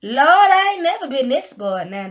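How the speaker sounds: a loud, high cry of joy at Lord; overwhelmed exclaim. Retold or imitated. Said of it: "And I be like".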